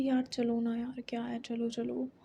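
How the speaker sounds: soft, slow coaxing, dropping to a whisper; hushed wheedling plea; pleading whisper. Retold or imitated. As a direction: beg her gently, almost breathless. Coaxing friend to come along.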